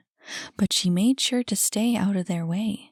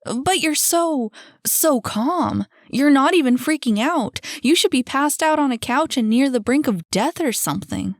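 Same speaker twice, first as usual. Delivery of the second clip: higher, louder, astonished protest; incredulous exclaiming; 6 semitones higher, 6 dB louder than usual. A narrator's reading. Jackie cannot believe newcomer Annie is calm, incredulous exclaiming. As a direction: marvel loudly at how wrong this is.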